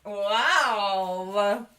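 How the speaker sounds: talking through a mouthful of food; mouth full. Real, not acted. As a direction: say it while chewing. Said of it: "What are you eating?".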